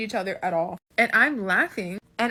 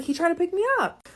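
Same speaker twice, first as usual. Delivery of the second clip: insistent mom; 8 semitones higher, faster than usual. Retold or imitated. Mom insisting in retold argument.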